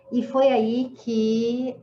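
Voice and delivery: usual speaking voice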